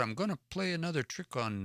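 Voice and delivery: hint of a sly beaver plotting a trick; beaver's thought. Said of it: "So the beaver thought".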